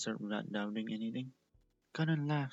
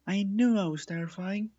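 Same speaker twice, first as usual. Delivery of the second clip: higher, louder playful gloat; smug boast; 8 semitones higher, 6 dB louder than usual. Acted. Cotton Candy gloating at Gummy, higher and louder. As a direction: gloat over the fallen pet. Boasting after scaring the pet.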